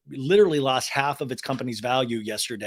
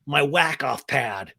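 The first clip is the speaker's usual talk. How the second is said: Sandoval impression; 4 semitones higher than usual. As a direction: rant as a caught-out whiner, pitch jumping high. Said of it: "his big lie has been found out".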